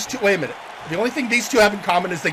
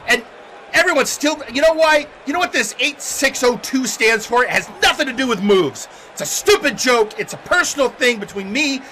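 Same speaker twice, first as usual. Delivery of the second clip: frustrated, higher-pitched rant, stumbling over words; angry wrestler; 6 semitones higher, 5 dB louder than usual. Acted. Beaten wrestler ranting that they deserve a title shot, angry and sputtering. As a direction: burst out and sputter with outrage. Kane rants after losing.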